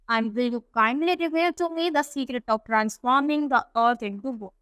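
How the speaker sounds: reads the English text slowly and carefully; unhurried storybook reading; slow story reading. A narrator's reading. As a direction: read it out word by word for the class. Slow English read-aloud of story.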